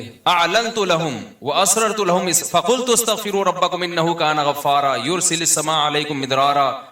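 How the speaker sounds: measured Quranic recitation in Arabic. Acted. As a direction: recite the verses with tajweed. Recites Quran verses of Nuh.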